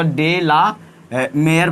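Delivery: "डे ला, ए, मेयर" split into separate parts; careful name pronunciation. Shown as a demonstration. Teacher showing students how the poet's surname is read, careful pronunciation. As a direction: sound out "डे ला, ए, मेयर" piece by piece. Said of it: "पढ़ा जाता है ना".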